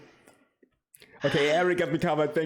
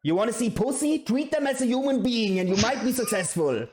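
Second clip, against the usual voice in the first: irritated, raised-pitch lecture; pissed off; 6 semitones higher than usual. Real, not acted. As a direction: spell it out in exasperation. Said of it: "it's fucking pissing me off".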